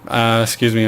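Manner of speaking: talking through hiccups; hiccuping between words. Real, not acted. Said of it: "I'm just hiccuping".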